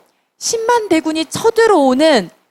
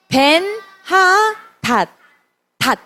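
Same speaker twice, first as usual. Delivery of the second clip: Ben-hadad stretched slowly, pitched higher; slow drawn-out name; 5 semitones higher, much slower than usual. Shown as a demonstration. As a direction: spell the name out slowly for kids. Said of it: "아람 왕의 이름은 뭐라고요?". (천천히 늘여 말하는 이름)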